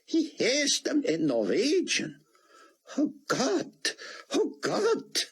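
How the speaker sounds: high, breathless awe building to a cry; awed rabbi. Acted. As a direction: pour it out, shaken by wonder. Rabbi overwhelmed by the miracle.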